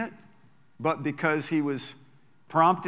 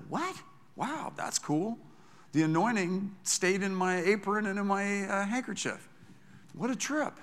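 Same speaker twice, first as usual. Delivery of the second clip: high, softer, wide-eyed disbelief; Paul amazed; 5 semitones higher, 4 dB quieter than usual. Retold or imitated. Paul scratching his head over healing handkerchiefs, high and stunned. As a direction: play a stunned apostle marvelling at his own apron. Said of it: "I bet Paul scratched his head".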